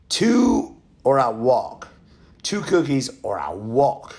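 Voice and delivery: slow, drawn-out ultimatum; hard bargaining. Acted. Red Riding Hood haggling with the wolf, slow and firm. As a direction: stretch each word as a firm final offer.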